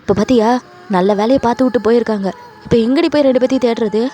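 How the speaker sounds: loud acted scolding; heated, accusing outburst; angry blaming. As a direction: lay into them with exasperation. Husband blames wife's mother.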